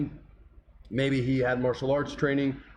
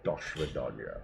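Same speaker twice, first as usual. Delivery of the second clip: very low Scottish-tinged Russian; mock a Scottish actor's deep, quiet Russian; Sean Connery; 13 semitones lower, 9 dB quieter than usual. Mocking a Russian sub captain with a Scottish accent, Connery impression. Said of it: "Sean Connery as the Russian sub with a Scottish accent".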